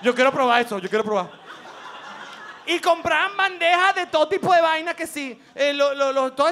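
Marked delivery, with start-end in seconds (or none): 0.0-1.3 put-on craving kid. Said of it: "uno sentía".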